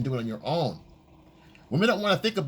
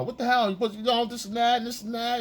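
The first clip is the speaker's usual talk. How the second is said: pitched-up complaining; mock arguing; 9 semitones higher than usual. Boyfriend starting a fight with his girlfriend, hammed-up. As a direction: argue back like the boyfriend, hammed-up. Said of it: "Now you wanna fight and argue".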